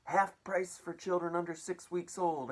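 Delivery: high, loud hawker shout; shouting aunt. Acted. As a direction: call the bargain out over the crowd. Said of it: "Aunt Sponge shouted".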